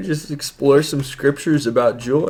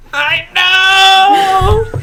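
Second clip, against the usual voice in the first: retold tearful yes; 5 dB louder than usual. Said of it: "I'm like".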